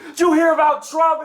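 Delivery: high shouted politics rant; mock yelling. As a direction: yell it, half laughing. Driver and passenger yelling politics.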